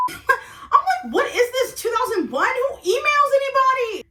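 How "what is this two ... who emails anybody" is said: high-pitched, amused disbelief; hammed-up scandalized question; mocking incredulity. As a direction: ridicule it with a loud, rising squeal. Acted mocking disbelief at emailing.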